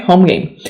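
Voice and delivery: Home said as one syllable, no extra E; correct home game. Shown as a demonstration. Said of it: "Please don't say homey game".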